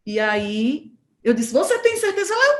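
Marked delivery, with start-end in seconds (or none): 1.5-2.3 doubtful question. Retold or imitated. Doubting driver asks.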